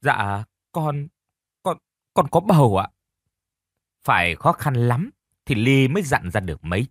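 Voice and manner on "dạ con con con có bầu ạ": sniffling. A narrator's reading. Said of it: "Cô vừa thút thít vừa nói".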